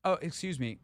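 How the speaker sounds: faux-sweet passive-aggressive excuse me; passive-aggressive politeness to a pathway blocker; mock polite. Shown as a demonstration. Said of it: "Or you could be even".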